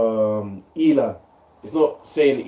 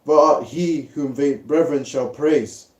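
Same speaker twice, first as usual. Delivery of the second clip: scripture reading; 2 semitones higher, 3 dB louder than usual. Acted. Reads Genesis 49 aloud.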